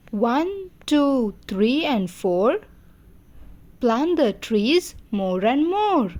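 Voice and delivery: measured sing-song nursery rhyme; poem recitation. Shown as a demonstration. Teacher teaching children a number poem, sing-song recitation. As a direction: recite in swooping phrases with pauses for children.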